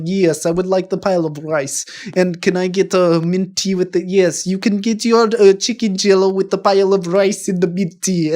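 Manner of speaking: lightly held mock Russian accent; weird Russian accent. Customer and shopkeeper settling an order, in a weird Russian accent. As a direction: play both sides in a fake Russian accent. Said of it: "like, a weird Russian thing".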